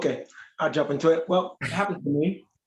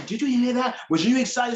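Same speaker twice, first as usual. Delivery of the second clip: higher-pitched, eager questions; excited churchgoer; 7 semitones higher than usual. Retold or imitated. Church sister to an admirer after the seminar, excited. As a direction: imitate her excitement in a raised pitch. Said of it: "knowing that she gets excited".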